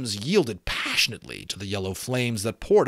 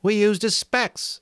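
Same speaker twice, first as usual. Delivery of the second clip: Simon voice; 12 semitones higher, 4 dB louder than usual. A narrator's reading.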